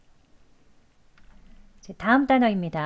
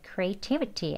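natural speed; 6 dB quieter, much slower than usual. Shown as a demonstration. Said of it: "자연스럽게 또 하시면 돼요".

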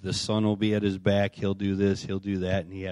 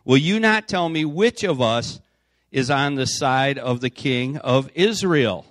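loud, higher-pitched kingly demand, read aloud; enraged demand; 5 semitones higher, 9 dB louder, slower than usual. A narrator's reading. Enraged king questions his officers about a spy, angry demand read aloud. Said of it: "this enraged the king of Aram".

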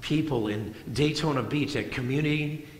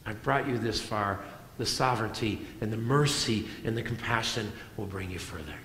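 gentle reassurance; 5 semitones lower, 7 dB quieter than usual. Retold or imitated. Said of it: "And I remember God saying".

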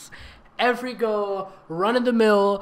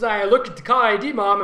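quick read; 4 semitones higher, 8 dB louder than usual. Shown as a demonstration. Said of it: "Otherwise, it's".

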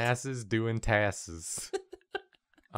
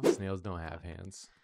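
indignant; 5 semitones lower, 8 dB quieter than usual. Pretend.

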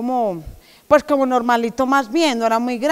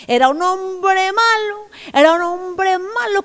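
ominous storyteller; 8 semitones higher, slower than usual. Acted. Describing the villain Goliath.

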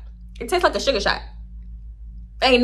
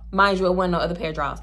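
ordinary delivery

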